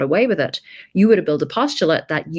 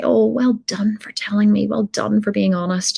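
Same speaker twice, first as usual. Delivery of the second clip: gentle praise; 5 semitones higher than usual. Retold or imitated. Mum praising child softly.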